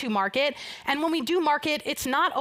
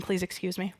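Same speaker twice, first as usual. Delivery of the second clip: wheezing through the words; wheezy voice; 4 semitones lower, 6 dB quieter than usual. Real, not acted. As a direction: speak with a wheeze, short of air. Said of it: "And here I am wheezing".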